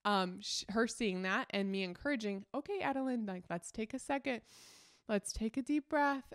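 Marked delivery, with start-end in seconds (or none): 2.5-6.3 calm coaching. Shown as a demonstration. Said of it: "staying calm is gonna help her".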